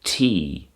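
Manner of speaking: tea said as a long "tee"; Welsh pronunciation. Shown as a demonstration. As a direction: hold the vowel in tea, "teee". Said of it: "it's pronounced".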